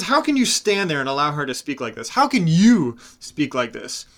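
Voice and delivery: wounded pride turning into contempt; angry Cyanidel. Acted. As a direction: berate Morlinde for allowing this. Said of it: "He says".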